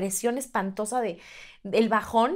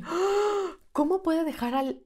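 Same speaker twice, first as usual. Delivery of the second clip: shocked gasp, then higher, slow disbelief; mock traumatized; 6 semitones higher, much slower than usual. Mother reacts to actress leaving her child, mock horrified. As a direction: gasp and ask as if scandalized, playfully. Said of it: "Y yo traumada así de".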